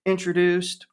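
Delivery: lightly voiced eager fanboy; imitating the waiter. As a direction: gush about the movie like a waiter fan. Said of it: "He goes".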